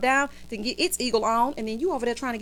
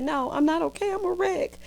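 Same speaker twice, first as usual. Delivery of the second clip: mock distressed Karen; 7 semitones higher than usual. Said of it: "She said".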